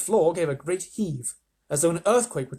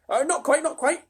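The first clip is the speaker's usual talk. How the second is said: high ladybird voice; 12 semitones higher, 4 dB louder than usual. Acted. Ladybird corrects.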